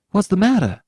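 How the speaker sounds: high, loud alarmed question; shocked father demands an answer; appalled demand. Acted. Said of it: "demanded Mister Button, appalled".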